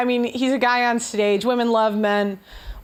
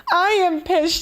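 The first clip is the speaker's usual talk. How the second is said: pissed off; 5 semitones higher than usual. Real, not acted.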